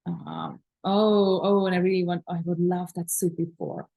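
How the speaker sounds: low, yearning mock swoon; longing desire. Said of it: "I so desire this sushi".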